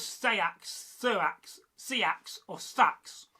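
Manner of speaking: "Seax, Sirax, Seax or Sax" slowly, each distinct; regional variants. Shown as a demonstration. Teacher recapping regional speech, slow distinct "Seax" to "Sax". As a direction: list each variant slowly, changing the vowel. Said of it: "say the words".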